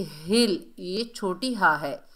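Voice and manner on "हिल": हिल with a full, heavy h. Shown as a demonstration. Teacher explains the letter, heavy drawn-out हिल. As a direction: lean on the h of हिल and hold it. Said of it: "हा की भारी sound होगी".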